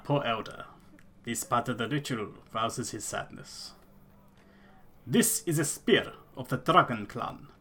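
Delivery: Elder in a lightly put-on rustic accent; solemn clan elder in a hammed-up accent; a hint of a bad fantasy accent. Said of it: "this fucking accent I'm going for".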